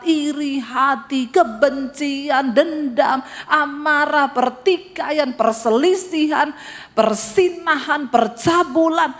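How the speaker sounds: slow, emphatic recital of sins; scripture reading. Acted. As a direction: read each sin deliberately, building. Reads scripture list. (pembacaan ayat yang lambat dan tegas)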